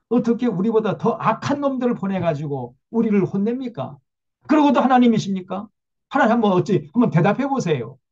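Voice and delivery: concede, then push back harder and harder; protesting question. Retold or imitated. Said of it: "항변적인 질문을 합니다".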